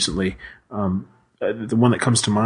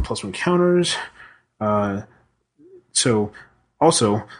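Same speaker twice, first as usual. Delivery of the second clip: Swedish Chef. Pretend. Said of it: "I was impersonating the Swedish chef".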